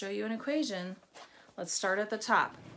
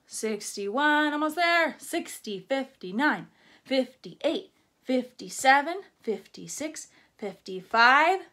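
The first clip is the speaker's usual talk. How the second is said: louder, rising chant of numbers; energetic countdown; 2 semitones higher, 6 dB louder than usual. Acted. Teacher counting backward to fifty-four with the class. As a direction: count down with building excitement.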